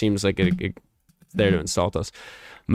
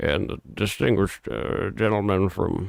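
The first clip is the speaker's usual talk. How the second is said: croaky, drawling, muttered speech. Doing a requested impression of speaking at an event: Mitch McConnell impression. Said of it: "Can you do an impression of Mitch McConnell speaking?".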